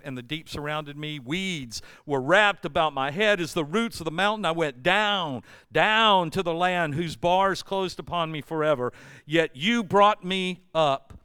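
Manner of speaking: measured recital of a prayer; scripture reading. Acted. Preacher reads on in Jonah chapter two, scripture reading. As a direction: read the verses aloud, pausing for weight on the turns.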